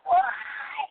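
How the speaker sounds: a high, strained wail; anguished cry. Retold or imitated. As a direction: shriek it out in despair. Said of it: "Not that".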